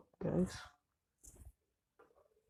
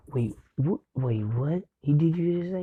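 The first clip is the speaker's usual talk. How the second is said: shocked mother; 3 semitones higher, 7 dB louder than usual. Retold or imitated. Shocked mother questioning doctor.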